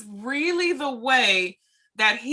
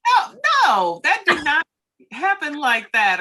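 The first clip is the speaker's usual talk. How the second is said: high, louder flat denial; sharp denial; 7 semitones higher, 4 dB louder than usual. Retold or imitated. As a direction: shut the story down loudly. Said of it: "Instead of saying".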